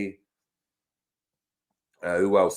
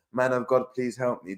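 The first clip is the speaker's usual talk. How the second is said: mock plea, slightly higher in pitch; Curtis Jones; 4 semitones higher, 3 dB quieter than usual. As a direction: lightly imitate a footballer begging for help. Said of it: "that's Curtis Jones".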